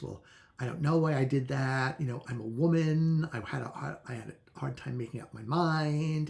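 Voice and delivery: flibbertigibbet. Retold or imitated. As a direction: play up a scatterbrained, helpless answer. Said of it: "almost like Flibbertigibbet answers".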